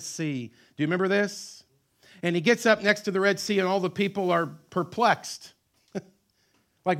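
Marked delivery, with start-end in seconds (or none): 2.2-7.0 loud, high preacher's build; full-force preaching. Acted. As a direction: drive the story home from the pulpit.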